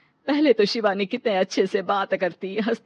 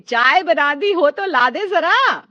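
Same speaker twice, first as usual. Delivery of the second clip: teasing demand; 6 semitones higher, 6 dB louder, slower than usual. Acted. Mother-in-law teasing son.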